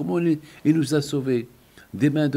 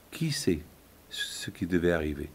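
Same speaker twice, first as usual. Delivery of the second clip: whispered; 7 semitones lower, 8 dB quieter than usual. Acted. Hushed ominous question.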